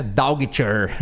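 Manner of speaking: Daughter said letter by letter, the g and h sounded, like it is written; spelling pronunciation. Shown as a demonstration. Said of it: "você olha o jeito que ela é escrita".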